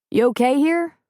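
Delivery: a touch of casual Jack; Jack asking. Acted. Jack asks Preacher.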